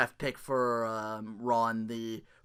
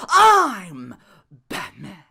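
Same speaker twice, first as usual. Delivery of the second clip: mock Batman line; 12 dB louder, much slower than usual. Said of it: "He's like".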